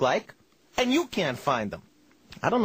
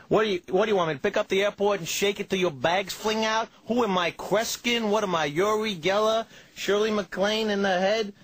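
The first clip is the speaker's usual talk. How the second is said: ranting clerk; 5 semitones higher than usual. Retold or imitated.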